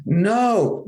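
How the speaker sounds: be the whole class shouting no; kids answering. Retold or imitated. Voicing the kids' reply.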